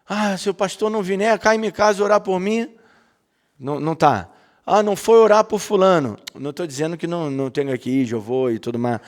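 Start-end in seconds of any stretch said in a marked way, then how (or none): 0.1-2.7 higher-pitched mock complaint; ironic complaint. Churchgoer grumbles that the pastor won't visit, ironic. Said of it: "Eu tô falando de la ironia". 4.7-6.2 mock-indignant, pitched up; ironic complaint. Churchgoer faults the pastor over someone unvisited, ironic complaint. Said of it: "Eu tô falando de la ironia".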